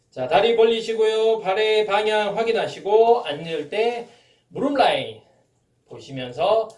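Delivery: loud, high gym coach calling cues; barking gym coach. Acted. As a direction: call the form cues to the class.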